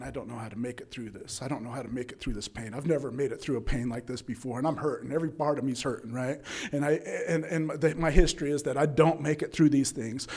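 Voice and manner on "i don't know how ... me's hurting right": quiet despair. Retold or imitated. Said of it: "And I'm thinking".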